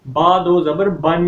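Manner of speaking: "بن" spelled out slowly with a held n; ending nun sound. Shown as a demonstration. Teacher spells two zabar aloud, held n on "بن". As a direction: draw out "بن" and ring the final n. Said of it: "نون کی آواز آتی ہے".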